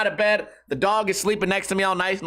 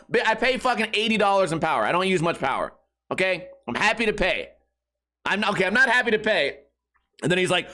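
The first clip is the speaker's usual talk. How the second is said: ordinary talk, nothing marked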